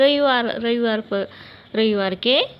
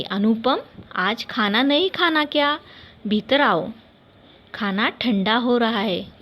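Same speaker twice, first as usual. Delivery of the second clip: mother calling her son in to eat; a hint of a mother calling from the kitchen. Mother calling son Anupam in for dinner, lightly voiced call. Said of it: "माँ ने आवाज़ लगाई".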